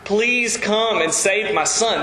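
understated plea, slowing toward the end; acted pleading. Father pleading on behalf of his son, acted pleading. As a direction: plead slowly, with a touch of desperation. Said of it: "a father pleading on behalf of his son".

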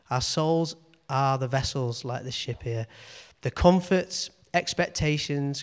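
put-on measured, solemn reading of an old text; reading aloud. Reads old commentary aloud.

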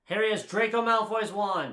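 loud, high declaration; exasperated insistence. Real, not acted. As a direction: drive the fact home at high volume.

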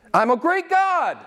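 very high, exultant divine declaration; God. Acted. Preacher speaking as God after the ultimatum, very high declaration.

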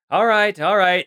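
high, curt all right; brisk dismissal. Acted. Scientist gives up on her creation, curt and high. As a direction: brush it off and move on.

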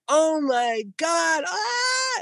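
high crying shout of fright; imitating the wife's scared cry; frightened wife. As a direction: cry out in panic, slowly. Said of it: "She's like".

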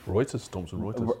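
Reuters as British ROY-tuh; British "Reuters", demonstrated plainly; proper English pronunciation. Shown as a demonstration. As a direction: say "Reuters" with OY and a dropped final R. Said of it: "tell us the proper, uh, English".

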